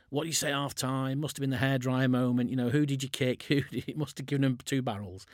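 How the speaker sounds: ribbing the coach about a half-time blast; excited pundit grilling. Retold or imitated. Pundits teasing the coach after the win, mock excited.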